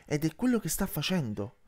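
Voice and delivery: a touch of an irritated outburst; understated snapping retort; mild snap. Acted. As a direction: answer back with light annoyance. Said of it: "sbottò Yandru".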